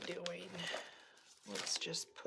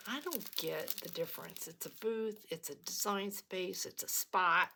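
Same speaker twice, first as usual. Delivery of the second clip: puzzled thought. Retold or imitated.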